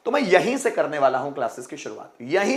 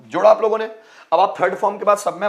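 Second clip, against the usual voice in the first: calling out to class; 4 semitones higher, 5 dB louder, faster than usual. Real, not acted. Teacher calls out to class.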